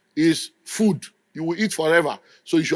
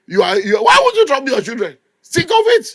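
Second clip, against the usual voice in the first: high and louder, laughing through the words; 12 semitones higher, 5 dB louder than usual. Real, not acted. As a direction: laugh while you scold them. Laughing while repeating the jab.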